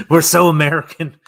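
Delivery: laughing through the words; chuckling at themselves. Real, not acted. Laughing at own confusion.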